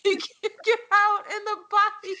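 cracking up mid-sentence; laughing while telling. Real, not acted. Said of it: "I just will never get over".

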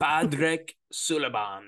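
slow, hammy fake Irish accent; bad Irish accent. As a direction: ham up a bad Irish brogue. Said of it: "That was a really bad Irish accent".

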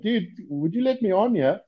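a hint of puppy-dog begging; pleading puppy dog. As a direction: beg like a little puppy dog. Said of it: "like a little puppy dog".

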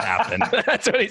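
retelling the line through a laugh. Retold or imitated. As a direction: quote broken up by laughter. Quoting the guy, laughing.

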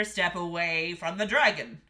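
loud, firm fatherly order; stern father. A narrator's reading. Father ordering the daughter from the dragon, firm. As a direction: order it firmly, lightly in character. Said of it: "said her father".

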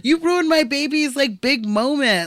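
pissed. Retold or imitated. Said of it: "he's just pissed".

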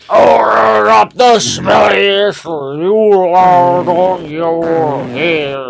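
loud, drawn-out mock roar; mock growled threat. Co-host mimicking the Yule log threat, mock roar. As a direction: stretch every word into a hammy bellow.

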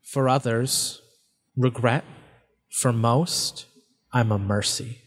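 lightly voiced otherworldly riddler; measured phrases, each left hanging; cryptic mysterious being. Mysterious voice answers who it is, lightly cryptic.

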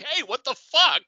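hammed-up indignant outburst; mock outrage. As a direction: snap back, insulted. Girl offended at being labeled.

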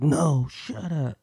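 mock a kid showing out in the store; mimicking a bratty kid. Retelling how kids now sass their parents, bratty kid voice. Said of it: "They be like".

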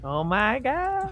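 high, slow astonished gasp; shocked. Real, not acted. Dramatic reveal.

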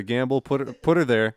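put-on tipsy, loose drunk greeting. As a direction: slur it like a drunk at work. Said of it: "I'm drunk at work".

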